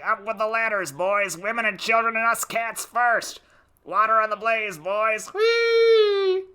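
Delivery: high siren wails and frantic fire calls; five-alarm fire. Acted. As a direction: wail like a fire siren, then yell orders. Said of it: "Wanna hear me sound like a five-alarm fire?".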